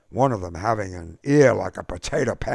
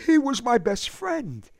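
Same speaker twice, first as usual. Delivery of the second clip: high, louder cry of grief; cried out; 5 dB louder than usual. A narrator's reading. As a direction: shout it through tears for your friend. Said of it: "Eddie cried out".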